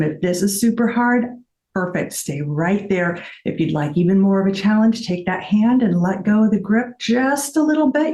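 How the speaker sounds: fitness instructor cueing. Shown as a demonstration. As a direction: coach the balance move warmly. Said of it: "I sound like an auctioneer talking".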